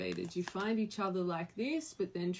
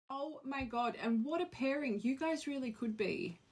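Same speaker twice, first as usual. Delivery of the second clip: excited amazement; 7 semitones higher than usual. Real, not acted. Reacting to card pairing.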